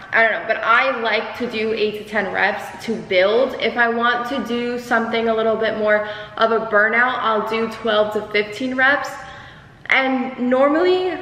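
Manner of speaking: out of breath after a workout. Real, not acted. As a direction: talk while still out of breath. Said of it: "sorry, I'm, like, out of breath".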